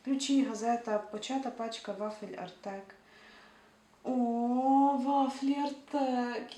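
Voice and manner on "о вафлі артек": delighted surprise. Real, not acted. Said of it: "Я забула про їхнє існування".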